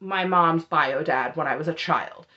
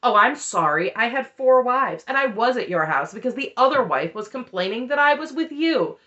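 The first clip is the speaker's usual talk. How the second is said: mock non-apology; 3 semitones higher than usual. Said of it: "this non-apology".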